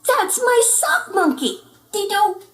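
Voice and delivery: high, loud indignant; indignant claim. Acted. Martian twin claiming the monkey, high and loud. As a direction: claim it as yours.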